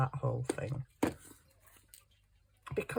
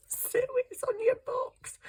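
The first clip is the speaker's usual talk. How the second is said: whispered hint to a friend, high; stage-whisper a helpful tip; hushed voice of viewers pointing it out; imitated whisper. Voicing viewers telling her quietly.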